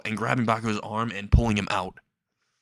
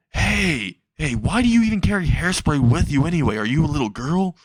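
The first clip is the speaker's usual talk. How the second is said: high-pitched, swooping mock indignation; protesting villain; 5 semitones higher, 4 dB louder than usual. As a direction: complain in a put-on higher voice. Burning villain protests the hairspray.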